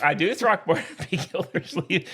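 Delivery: laughing through the name. Retold or imitated. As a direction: chuckle as he names the old show. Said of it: "you're not doing Throckmorton".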